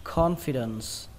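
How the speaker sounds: CONFIDENCE said slowly, falling after CON; slow model reading. Shown as a demonstration. Teacher introducing a new word, slow reading. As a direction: stretch out "confidence". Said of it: "các bạn đọc là".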